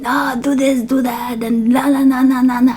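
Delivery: energetic bossy self. Retold or imitated. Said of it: "I'm that, uh, so energetic".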